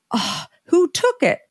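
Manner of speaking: imitating her own startled worry on hearing it's gone; alarmed question. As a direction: ask it like the stock was just stolen. Thinks product was stolen.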